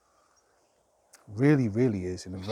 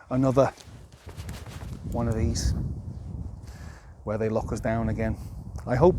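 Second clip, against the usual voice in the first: raised voice; 4 dB louder than usual. Real, not acted. Fearful rant about lockdowns and war.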